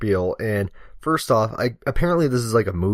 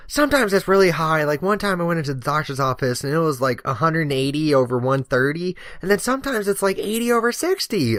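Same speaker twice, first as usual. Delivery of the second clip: lightly voiced old lady, pitched up; chatty old woman; 5 semitones higher than usual. Old woman telling the firefighter her readings, lightly imitated chatter. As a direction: imitate an oblivious rambler in a higher voice.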